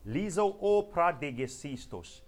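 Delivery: slow, stretched-out prophetic utterance; demonstrated prophetic tongues. Shown as a demonstration. Preacher demonstrating a message to the church, slow prophetic declaiming. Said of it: "when I come and stand here and I say".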